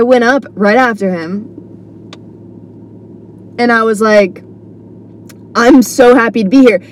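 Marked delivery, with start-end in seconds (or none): 5.5-6.8 sincerely glad, lightly upbeat retelling; genuine. Retold or imitated. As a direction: greet the room as if truly happy. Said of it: "I said it in a genuine way".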